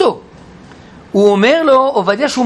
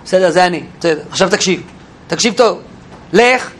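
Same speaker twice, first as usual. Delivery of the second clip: curt; 4 semitones lower than usual. Acted. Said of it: "הוא חד".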